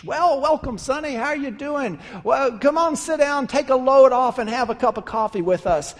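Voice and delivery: put-on a friendly old-timer inviting you to sit; old man's welcome. Old camper welcoming the traveler, lightly folksy.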